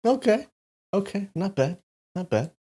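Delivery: grudgingly impressed by the joke; high, amused "not bad"; amused approval. Real, not acted. Amused reaction to the AI's joke.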